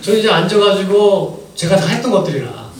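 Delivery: chuckling through the line; amused laughing aside; laughing while talking. Real, not acted. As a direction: laugh it out at yourself. Laughing recalling his own past.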